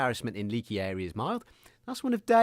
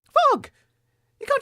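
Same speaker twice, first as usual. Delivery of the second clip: loud, high shout of his name; angry shout; 7 dB louder than usual. Acted. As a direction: yell at him for cutting off the guest. Cohost shouting at Fogg.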